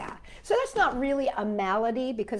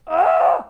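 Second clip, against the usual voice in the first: a short, loud, sickly "ugh" from the puppet; puppet's sick groan; 6 semitones higher, 11 dB louder than usual. Pretend. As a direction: groan like a sick little dog. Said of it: "Sparky is like".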